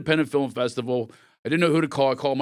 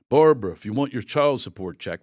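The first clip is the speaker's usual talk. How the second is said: drawling Jack Nicholson-style dad; sly Nicholson sneer; 6 dB louder than usual. Retold or imitated. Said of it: "Your dad's Jack Nicholson?".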